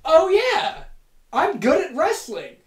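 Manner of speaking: high, loud, gloating; hammed-up brag; cocky boast. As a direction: crow it like a show-off. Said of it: "Xavier promptly says".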